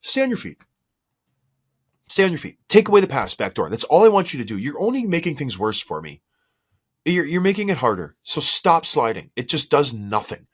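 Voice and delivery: goalie ordering defensemen. Retold or imitated. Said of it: "I'm telling all my defensemen".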